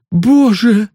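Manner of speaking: high, loud cry of despair; anguished cry. A narrator's reading. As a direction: break down at the news. Sonya before sobbing. (отчаянный громкий возглас)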